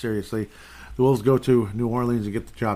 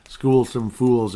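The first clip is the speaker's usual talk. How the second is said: slow emphatic slang; 7 dB louder, much slower than usual. Pretend. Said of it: "as they say".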